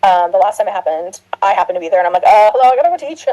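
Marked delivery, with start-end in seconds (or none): 2.2-3.3 higher, louder retold protest; lightly acted "hello, excuse me"; mock exasperated. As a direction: play up the exasperated interruption. Retelling her own exasperated reaction.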